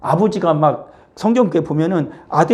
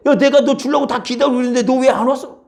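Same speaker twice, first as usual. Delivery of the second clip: father chiding; 9 semitones higher, 4 dB louder than usual. Acted. Father scolding child, acted.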